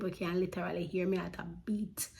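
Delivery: hushed whisper about the pounding heart. Real, not acted. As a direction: drop to a breathless whisper. Describing pounding nervous heartbeat.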